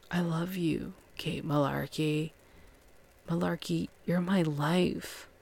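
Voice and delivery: softly voiced mock love confession; tender declaration. Johnny to Kate in an intimate moment, softly tender.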